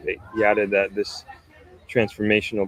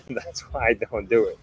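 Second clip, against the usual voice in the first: laughing. Real, not acted. Laughing at viewers' accent joke.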